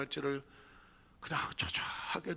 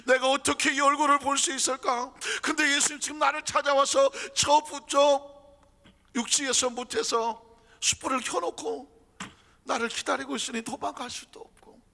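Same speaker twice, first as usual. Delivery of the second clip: anxious Peter; 8 semitones higher, 7 dB louder than usual. Acted. Peter's anxious inner monologue.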